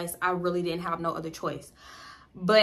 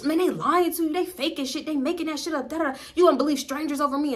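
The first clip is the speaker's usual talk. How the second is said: higher, fast, dismissive denial; mock gaslighting boyfriend; 7 semitones higher, faster than usual. Boyfriend denying everything to her, mock dismissive and higher. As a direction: brush it off like a smooth liar. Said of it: "he'd be like".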